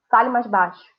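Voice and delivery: loud firm command; teacher demonstrating a command; imperative order. Shown as a demonstration. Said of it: "indica uma ordem ou um pedido".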